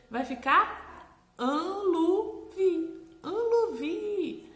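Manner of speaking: Anluvi drawn out very slowly, high and loud; silly made-up word. Shown as a demonstration. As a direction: savor Anluvi as a funny word. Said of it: "brinca com ela".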